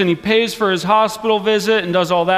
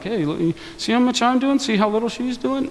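sweetly pointed, mock innocent; passive-aggressive; 5 semitones higher, 3 dB quieter than usual. Martha nudging Jesus about her idle sister, mock sweet and pointed. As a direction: needle him with a sugary edge. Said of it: "passive-aggressive".

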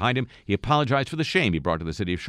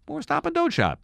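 silly high voice. Acted. Joke punchline in silly voice.

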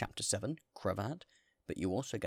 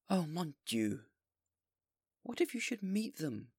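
high, louder, slow anguished cry; dismayed mayor; 8 semitones higher, 4 dB louder than usual. Acted. Mayor crying out to the bishop in dismay. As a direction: wring your hands in fear.

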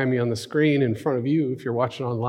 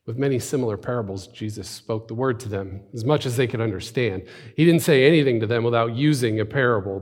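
even, restrained narration of scripture; scripture reading. Acted. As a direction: read the passage plainly and evenly. First reading of the passage.

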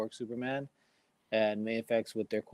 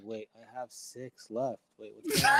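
surprised. Retold or imitated. Retells panicked miscount while counting.

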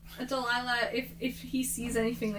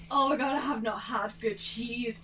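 character voice. Acted. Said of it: "Only that's not her voice".

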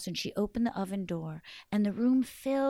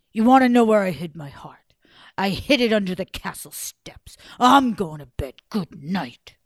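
gruff giant whisper; 10 dB louder than usual. Acted. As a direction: grumble it, half whispered.

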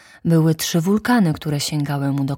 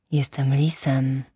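fox; 2 semitones lower than usual. Acted. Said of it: "odparł lis".

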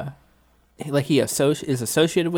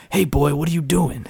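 imitating an awful Southern accent, laughing through it; mock Southern accent; 3 semitones higher than usual. Mocking the action hero's Southern accent: hammed-up Southern accent. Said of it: "getting into the local dialect".

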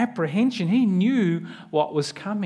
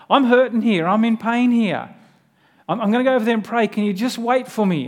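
pleading; 3 semitones higher, 4 dB louder than usual. Retold or imitated. Voicing Jesus pleading to disciples.

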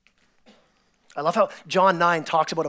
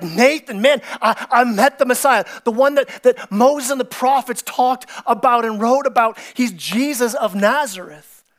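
rising, louder, eager announcement; excited news; 4 semitones higher, 4 dB louder than usual. Acted. Philip telling his brother Nathanael excitedly. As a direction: burst out with the big news.

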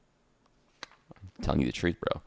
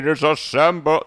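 cartoon hero call; 7 semitones higher than usual. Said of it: "That's what they do, just like that".

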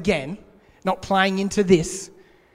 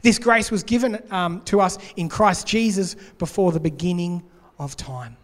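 scripture reading; 2 semitones higher than usual. Acted. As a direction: read the verse out with weight. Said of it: "Two Timothy one nine says this".

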